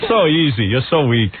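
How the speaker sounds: Arnold voice. Retold or imitated. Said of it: "that, that voice".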